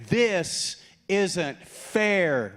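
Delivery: drawn-out, whining "This isn't fair"; whiny complaint. Acted. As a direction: whine it slowly like a sulky kid. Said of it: "He is out there saying".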